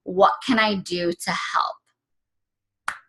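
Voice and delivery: slow, hushed whisper. Retold or imitated. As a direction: breathe it out slowly, in awe. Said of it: "And he said".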